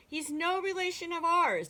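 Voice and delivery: affronted frog setting things straight; indignant declaration. A narrator's reading. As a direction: declare it firmly, disowning the visitor. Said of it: "declared the frog".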